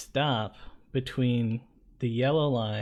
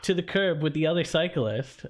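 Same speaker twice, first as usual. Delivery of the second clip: higher, barked command; bossy cop order; 5 semitones higher than usual. Retold or imitated. Cyclist imitating the cop ordering him to the curb, higher. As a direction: snap the order like an impatient cop.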